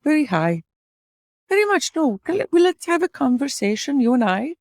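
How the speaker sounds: lilting mock Swedish accent. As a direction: put on a simple, singsong Swedish accent. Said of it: "can you do a Swedish accent".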